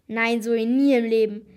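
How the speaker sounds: a nervous, frightened no; wobbly voice. A narrator's reading. Jackie refuses to ring, voice unsteady with fear. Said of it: "Jackies Stimme wackelte".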